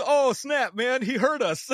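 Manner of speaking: high-pitched mock panic, on the edge of laughing; busted gamer. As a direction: imitate a guy who realises he's been overheard. Caught gamer retold amid laughter.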